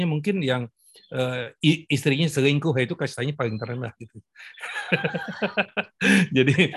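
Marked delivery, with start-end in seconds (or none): 4.6-6.3 short amused laugh. Real, not acted. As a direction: burst into a quick laugh. Laughs at own joke.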